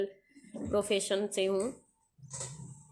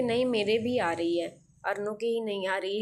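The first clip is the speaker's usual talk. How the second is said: louder mock protest, voicing a little boy; retold child's protest; 4 dB louder than usual. Younger boy answering about his brother's moustache, mock protest.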